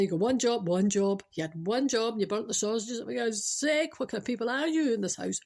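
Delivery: mildly exasperated nagging wife; acted domestic scolding; mock berating. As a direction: act out a telling-off, hammering the repeats. Acted mother berating the father.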